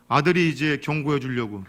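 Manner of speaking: usual speaking voice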